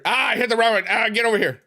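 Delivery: high urgent cry; high-pitched exasperated outburst; frustrated game yell. Real, not acted. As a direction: yelp at the runaway chickens. Yells at escaping chickens.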